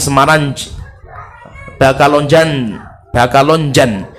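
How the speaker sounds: imitated Arab accent, "Semarang" ending in a plain n, "Bakalonjan" with B and j. Shown as a demonstration. Teacher imitates Arabs saying Indonesian town names, Arab accent. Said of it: "Mereka ngomongnya".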